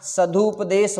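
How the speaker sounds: सदुपदेश stretched slowly as sa-duu-pa-desh; सदुपदेश slowly, with a clear "du"; slow sounding-out. Shown as a demonstration. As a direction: draw out सदुपदेश syllable by syllable. Teacher repeats correct word slowly.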